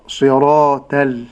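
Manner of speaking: slow صراط ال with a light t-like ta; thin the ta in صراط ال; wrongly thinned ta. Shown as a demonstration. Sheikh showing what to avoid in صراط ال, light ta. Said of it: "ولا أرقق إلا الطاء".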